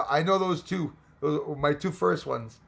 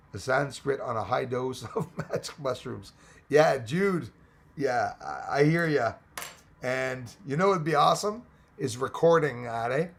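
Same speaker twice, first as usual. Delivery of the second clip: usual speaking voice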